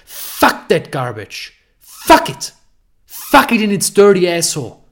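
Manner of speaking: loud, raw cursing rant; angry outburst. Real, not acted. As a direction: spit the words out in disgust. Angry rant about dating advice.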